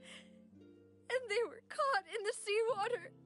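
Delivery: distressed, voice lifting with grief; grief-stricken. Acted. Woman mourning friends lost in the flood, grief-stricken. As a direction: tell it through welling grief.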